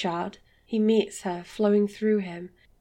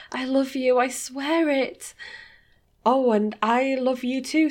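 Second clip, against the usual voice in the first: a hint of a higher, adoring lover; lightly voiced lover; 4 semitones higher than usual. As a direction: play her devoted, a little higher. Sophia voiced by narrator.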